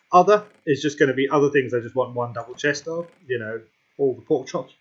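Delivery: talking through hiccups; hiccuping. Real, not acted. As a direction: hiccups breaking into the words. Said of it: "I'm hiccuping, sorry".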